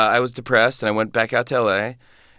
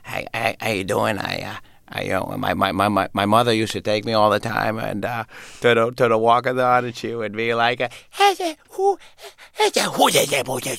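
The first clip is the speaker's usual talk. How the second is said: Adam Sandler. Acted. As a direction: stumble shyly through it, then burst into squeaky gibberish. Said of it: "Next up, Adam Sandler".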